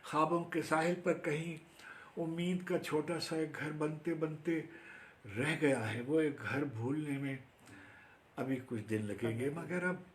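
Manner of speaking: lifted lilting verse, dropping on the refrain; expressive Urdu poem recital; poetry recitation. Acted. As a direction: recite in long waves with pauses.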